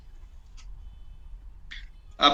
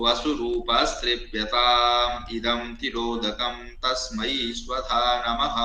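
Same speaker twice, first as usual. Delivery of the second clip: slow, measured Sanskrit chant; mantra recitation. Shown as a demonstration. Teacher demonstrating the mantra for students, in slow chant. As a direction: intone each syllable deliberately. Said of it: "तीन बार बोलना है".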